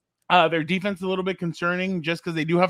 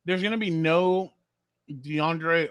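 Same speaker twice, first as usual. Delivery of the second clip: talking around a mouthful of ice; words muffled by ice cubes; slower than usual. Real, not acted. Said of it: "I have ice in my mouth".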